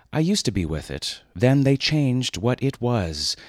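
slow, lightly voiced old man; drawn-out doddering old-timer; Grandpa Simpson. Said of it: "Grandpa Simpson said it best once".

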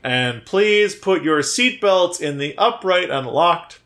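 slow, lightly voiced flight attendant; a hint of an in-flight safety announcement; flight safety demo. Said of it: "a flight attendant doing the safety speech".

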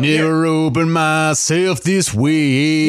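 slow, sung through compression; tinny processed singing voice; metallic voice. Acted. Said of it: "you sound metallic".

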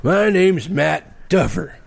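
high, slow sitcom character voice; cheesy TV character. Pretend. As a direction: introduce yourself like a goofy sitcom guy. Mock TV character intro.

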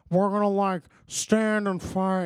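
loud, slow hammed-up gangster speech; rally them in a mock Scarface accent; Al Pacino. Friend retelling the weird rallying speech, Scarface impression. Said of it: "gives this weird speech".

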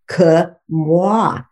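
"que moi" said slowly in French; French pronoun. Shown as a demonstration. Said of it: "le pronom disjonctif".

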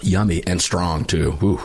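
just swallowed coffee; talking right after a sip; while sipping a drink. Real, not acted. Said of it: "Let me take a quick sip of Defender coffee".

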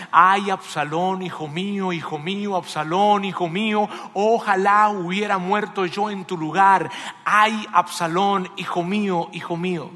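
loud, drawn-out wail of grief, acted; crying lament. David mourns his son Absalom, loud acted lament. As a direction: cry out slowly and loudly in mourning. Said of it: "lloraba y decía".

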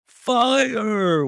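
full-voiced shout of fire; yelled. A narrator's reading. Narrator voicing men raising the alarm, loud yell. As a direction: bellow it down the corridor. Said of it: "we all yelled".

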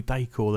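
Decor said as DAY-core; accented E in Decor. Shown as a demonstration. Host guessing at the slashed E, Decor as "day-core". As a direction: say Decor with a long "ay" in the first syllable. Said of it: "slashes on the E".

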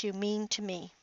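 tender whisper; husband whispering love to his wife. Retold or imitated. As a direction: breathe it to her softly.

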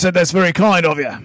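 loud, put-on Australian accent; hammed-up Aussie thanks. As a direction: play up a matey Australian accent. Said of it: "does the best Australian accent".

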